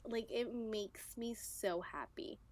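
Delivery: soft, slow whisper of happiness; whispered joy. Real, not acted. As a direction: breathe it like a confession. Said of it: "I'm gonna cry".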